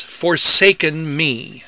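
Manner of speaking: "forsaken me" slow, with the weight on "me"; a slow stress demo. Shown as a demonstration. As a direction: let "forsaken me" land on the final word. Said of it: "emphasis should be on the last syllable".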